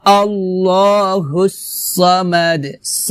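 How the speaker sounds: slow recitation, heavy "saw" in "সামাদ"; recited model. Shown as a demonstration. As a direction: draw it out with a dark s in "সামাদ". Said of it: "হবে".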